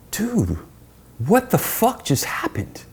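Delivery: high, slow retold whisper; stunned whisper. Wade on the ride to the airport, stunned whisper. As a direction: breathe it out in disbelief.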